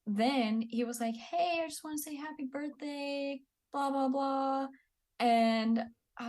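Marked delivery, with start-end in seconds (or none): 1.2-4.7 mocking the ex. Mocking ex's birthday visit.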